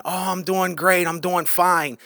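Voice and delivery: mock a polite cover-up answer; putting on being fine. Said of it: "that's not even how they're really feeling".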